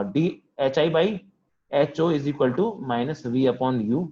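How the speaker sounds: each word of the formula spoken very slowly to the class; slow dictation. Shown as a demonstration. Teacher dictating a formula to the class, very slow. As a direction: spell the formula out slowly so students can write.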